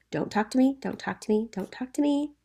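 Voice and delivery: "Don't talk to me" three times over, each a separate order; emphatic repetition. Retold or imitated. Teacher paraphrasing the angry father, "Don't talk to me" emphatically repeated. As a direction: repeat "Don't talk to me" insistently, lifting the pitch on the last. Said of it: "saying the same thing three times".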